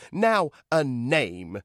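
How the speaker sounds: slow, high commanding voice; Echo's voice. A narrator's reading. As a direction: announce it slowly. Echo speaks, character voice.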